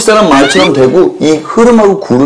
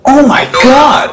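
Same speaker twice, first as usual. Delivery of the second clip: drawn-out higher "Oh my God!"; American "Oh my God"; 5 semitones higher, much slower than usual. Retold or imitated. Teacher imitating Americans, slow and higher. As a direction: stretch it out like an excited American. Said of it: "미국 사람들 하게 되면".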